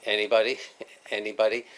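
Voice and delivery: the bored teacher calling the roll; monotone teacher. Retold or imitated. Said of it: "speak in a monotone like this".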